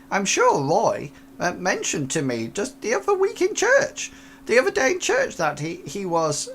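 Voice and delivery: lightly voiced nervous old lady; a hint of a fretful old woman.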